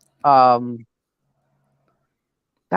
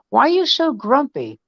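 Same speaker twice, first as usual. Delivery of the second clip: high, lilting teasing question; cheerful dad; 7 semitones higher than usual. Retold or imitated. Dad asking his grumpy daughter about her mood, cheerful. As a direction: lift the pitch, playfully probing. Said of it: "Your cheerfulness is eating me alive".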